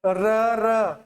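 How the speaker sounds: र with a rolled, trilling tongue; trilled r demo. Shown as a demonstration. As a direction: roll the र clearly, tongue vibrating. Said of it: "दो तीन बार र र बोलो". (कंपित र, जीभ काँपती हुई)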